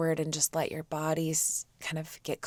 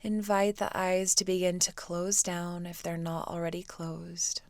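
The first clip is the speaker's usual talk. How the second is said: soft, unhurried meditation voice; guided meditation; 5 dB quieter than usual. Real, not acted. Teacher guides students to quiet the mind, soft meditation voice. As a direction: ease them into stillness with long pauses.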